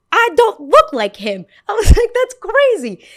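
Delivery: very high, loud laughing protest; laughing outrage. Retold or imitated. Girl insisting she doesn't look like Shrek, very high loud laughing protest.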